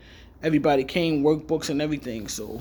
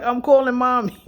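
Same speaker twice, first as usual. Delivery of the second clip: alarmed sister; 8 semitones higher, 7 dB louder than usual. Retold or imitated. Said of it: "She was like".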